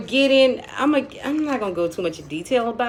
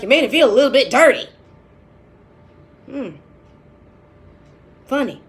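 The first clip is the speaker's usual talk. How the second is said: loud, fast, higher mimicry of her; imitating friend's aroused voice; 4 semitones higher, 8 dB louder, faster than usual. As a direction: mimic him doing her sexy voice. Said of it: "just get her voice down pat".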